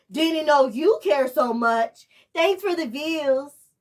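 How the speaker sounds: mock, biting sarcasm laid on heavily. Retelling a reply to a commenter: retelling own sarcastic reply. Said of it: "I'll be sarcastic".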